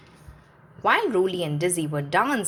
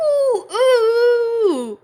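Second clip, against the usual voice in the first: much higher, louder scared cries; frightened whimper; 9 dB louder, much slower than usual. Acted. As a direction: whimper in panic. Lofty frightened by ducklings.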